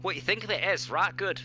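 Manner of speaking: playing a proud Yorkshire EV owner, a touch hammed up; Yorkshire accent. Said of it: "should I put on Yorkshire accent".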